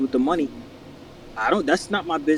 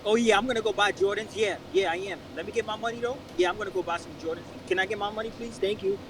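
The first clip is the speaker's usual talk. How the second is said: softer, higher mock-polite asking; 4 semitones higher, 5 dB quieter than usual. Acting out someone asking for their money, mock polite. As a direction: play it lightly, sweetly asking for what's owed.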